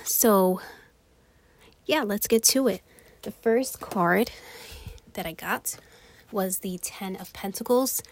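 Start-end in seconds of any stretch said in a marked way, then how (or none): 3.2-8.0 out of breath. Real, not acted. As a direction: talk while still winded from running up the stairs. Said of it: "Sorry, I'm a little out of breath".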